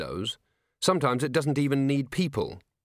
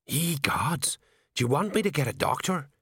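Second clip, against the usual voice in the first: horrified; 4 semitones higher than usual. Acted. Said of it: "Colon looked horrified".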